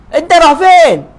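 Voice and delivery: Arabic dialect. Retold or imitated. Arab local answering him.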